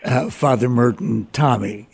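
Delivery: amused, with real laughs breaking in; giggling. Real, not acted. Interviewer tickled by guest calling Father Merton Tommy, giggling. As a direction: hold back a giggle between phrases. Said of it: "Excuse me for giggling".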